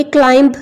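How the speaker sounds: क्लाइंब with an audible b at the end; wrong pronunciation. Shown as a demonstration. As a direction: sound the silent b after m in क्लाइंब. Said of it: "नहीं पढ़ेंगे".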